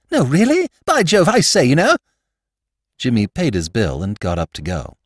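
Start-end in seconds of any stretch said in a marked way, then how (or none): 0.1-2.0 high, louder toff exclamation; lord Drever's reaction. Retold or imitated. Young lord reacting to the family secret, high astonished toff voice. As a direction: exclaim like a dim young aristocrat. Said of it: "the latter's comment had been".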